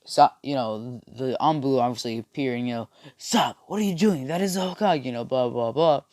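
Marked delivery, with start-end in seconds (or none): 3.2-5.0 higher-pitched mock alarm; a touch of urgent protest; alarmed guard. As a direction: challenge an intruder, lightly acted. Anbu confronting him in story.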